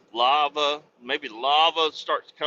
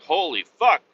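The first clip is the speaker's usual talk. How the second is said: high, loud astonished outburst; shocked that Cletus was right; pitched-up mock amazement; stunned listener; 7 semitones higher, 6 dB louder than usual. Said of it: "and you're like".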